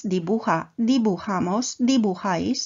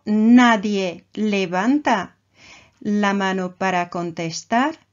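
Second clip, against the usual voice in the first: slow stressed nadie. Shown as a demonstration. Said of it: "Ya conocemos el verbo".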